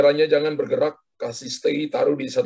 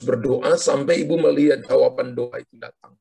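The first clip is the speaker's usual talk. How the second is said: prophetic declaration. Acted. Prophetic word over caller.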